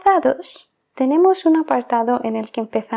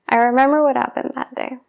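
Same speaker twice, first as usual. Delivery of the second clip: fast, linked. Shown as a demonstration. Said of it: "muy rápido".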